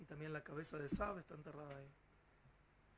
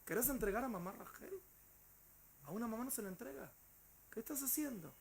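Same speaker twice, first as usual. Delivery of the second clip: imitating a crying shout; 6 semitones higher than usual. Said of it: "le gritaba y lloraba".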